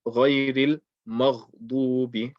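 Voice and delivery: "غير المغضوب" with the Mim said heavy; wrong, heavy Mim. Shown as a demonstration. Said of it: "Don't say".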